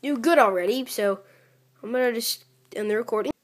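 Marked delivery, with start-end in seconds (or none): 0.0-0.9 slow mock-amazed viewer voice; imitating viewer. Gamer imitates a viewer praising him, mock amazed. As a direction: play an impressed viewer, teasing. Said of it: "you're probably like".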